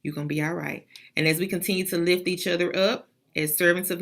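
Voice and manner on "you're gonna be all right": soft, comforting words to a tearful colleague; gentle reassurance. Retold or imitated. Students comforting crying Miss Garrett, softly reassuring. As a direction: talk her down kindly, quieter. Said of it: "just say".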